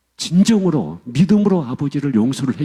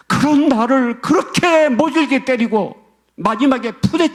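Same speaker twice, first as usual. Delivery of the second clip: anguished outcry; 6 semitones higher than usual. Retold or imitated. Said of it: "이분이 막 절규를 하는 거예요, 막 울면서".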